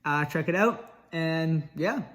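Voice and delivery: talking with retainers in; wearing a retainer. Real, not acted. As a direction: speak around a retainer in your mouth. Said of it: "I got my retainers in, so this outro is gonna sound very disgusting".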